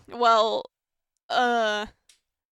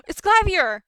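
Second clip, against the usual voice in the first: high, loud burst of recognition; excited exclamation; 7 semitones higher, 9 dB louder than usual. Acted. Spotting Clavier at the crime scene, excited and high. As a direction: cry it out, pitched well up. Character spots Clavier arriving.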